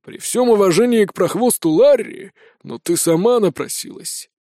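lightly put-on rasping brigand; hoarse bandit. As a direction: give a grim warning.

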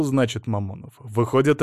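ordinary delivery, nothing marked

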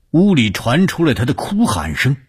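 high, urgent narrator's voice; dramatic narration. A narrator's reading. Narrator revealing cries from the room, dramatic and high. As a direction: raise the pitch to announce the cries.

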